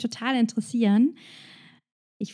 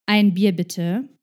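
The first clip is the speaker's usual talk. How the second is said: slow, louder order at the bar; ordering loudly; slower than usual. Retold or imitated. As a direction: stretch up and call it out. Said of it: "sage laut".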